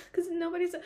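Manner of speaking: laughing in disbelief; amused disbelief at the book's characters. Real, not acted. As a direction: break into a laugh as you say it.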